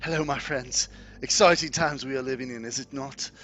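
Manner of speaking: loud greeting from a harried leader; lightly voiced Ismark. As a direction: hail your friends, a little winded. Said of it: "he's breathing kinda heavy".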